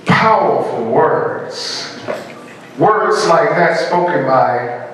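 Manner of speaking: slow, weighty phrases with long pauses; formal oratory. Real, not acted. Speaker crediting famous words to an audience, formal oratory. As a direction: let each phrase hang before the audience.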